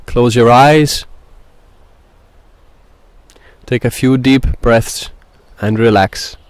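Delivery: measured meditation guide with long pauses; guided meditation. Acted. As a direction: ease listeners in, phrase by phrase.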